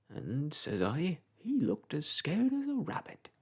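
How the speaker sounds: chatty old countryman, lightly voiced; a touch of a gossiping old clerk; old village clerk. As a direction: ramble on like a garrulous old parish clerk. Old parish clerk Macey rambling.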